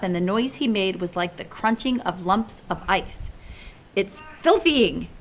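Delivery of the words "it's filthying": spluttered. Acted. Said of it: "he spluttered".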